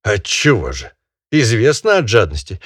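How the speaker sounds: loud, high lecturing master; scolding barin. Acted. Barin scolding the peasant over the dead bird, loud and high. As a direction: berate him like a pompous landowner.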